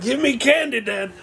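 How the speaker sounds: very high mock child plea; imitating his kid. Dad mimics his son asking for candy, high-pitched imitation. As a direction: pitch way up as a begging little kid. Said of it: "he's like".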